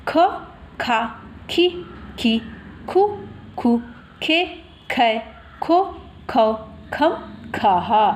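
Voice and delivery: evenly paced recitation with pauses; syllable drill. Shown as a demonstration. Teacher shows how vowel signs join ख, measured syllable drill. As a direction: recite each syllable separately for learners to follow. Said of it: "उसका उच्चारण करेंगे".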